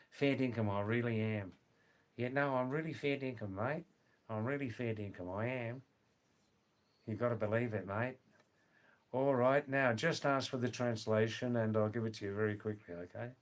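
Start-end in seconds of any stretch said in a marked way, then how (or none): 0.1-8.2 broad Australian accent. Shown as a demonstration. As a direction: mumble it matily in broad Australian. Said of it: "that accent doesn't suit me".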